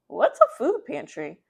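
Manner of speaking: put-on high, loud child's question; curious child. Molly asks mom what a food pantry is, high and curious. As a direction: ask like a puzzled little girl.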